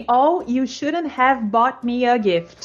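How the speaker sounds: full grateful phrase. Shown as a demonstration. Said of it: "Na verdade, assim".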